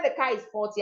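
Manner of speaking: quick, flat "the car is faulty"; flat intonation. Shown as a demonstration. Teacher showing learners being so flat, quick flat tone. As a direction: rattle off "car is faulty" fast, without melody. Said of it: "I'm being so flat".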